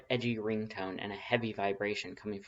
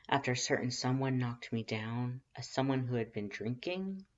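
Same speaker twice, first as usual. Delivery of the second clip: flirty teasing voice; 2 semitones higher than usual. Acted. Voiced character Lust.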